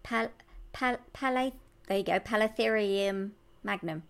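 sounding out Palatherium magnum syllable by syllable; careful pronunciation. Shown as a demonstration. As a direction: break Palatherium into pal, pala, then the full word.

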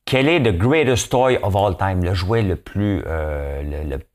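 slow, words around a sip of water; while sipping a drink. Real, not acted. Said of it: "pendant que je prends une gorgée d'eau". (en buvant une gorgée d'eau)

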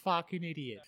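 a high, scornful sneer looking down on him; mock the drunk demon from above; judgmental maiden. Maiden sneering down at the drunk demon, scornful. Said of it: "looking down at him going".

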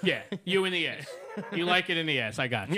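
teasing through laughter; chuckling mockery; laughing tease. Real, not acted.

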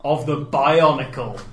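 grand slow announcer voice; slow movie voiceover. Retold or imitated. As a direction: intone it like a trailer. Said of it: "it says".

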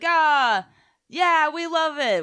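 high, loud mock cheer; slow, drawn-out adoring cheer; crowd cheering. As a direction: whoop it up like a bought crowd.

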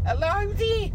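corrected impression, pitched high and held up; Patrick. Shown as a demonstration. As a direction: sing out the hello in a put-on Brummy voice. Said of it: "sounds a bit more like old Patrick".

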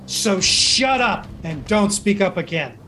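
high, mocking start dropping into a slow order; scornful rebuke. Orc officer silencing a meddling woman, scornful rebuke. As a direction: put the meddler down, slowly and deliberately.

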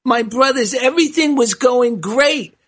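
put-on old rabbi with a Yiddish accent. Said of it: "he replied".

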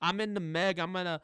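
mock Cockney accent; Jason Statham impression. Co-host butting in as Jason Statham, mock Cockney accent. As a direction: put on a rough go at a London accent. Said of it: "I'm Jason Statham".

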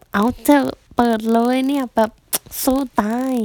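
rally her like a cheerleader, half in jest; mock pep cheer. Auntie cheering her onto the stage, mock pep.

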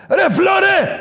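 put-on high, loud annoyed yell at the kid; mock scolding shout. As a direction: bark out the father's complaint. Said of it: "Μου κάνε".

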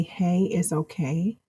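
soft, slow, gentle "Hey, it's okay"; soothing reassurance. Shown as a demonstration. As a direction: say it softly and slowly, to comfort. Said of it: "you have to believe that, not just say it".

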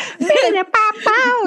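high mock guitar shred; imitated guitar riff. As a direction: sing out a silly guitar sting. Voicing the imagined guitar shred.

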